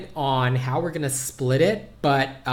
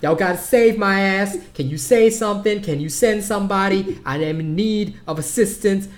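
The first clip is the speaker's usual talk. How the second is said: higher, urgent plea for help; hammed-up panic attack phone call; mock panicked call; 6 semitones higher, 5 dB louder than usual. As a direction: call out in play panic, winding down. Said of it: "I'm like".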